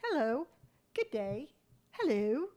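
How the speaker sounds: light mock British greeting, rising; a hint of posh British politeness. Greeting tattoo shop vendors, lightly mock British. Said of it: "I don't know why I became British".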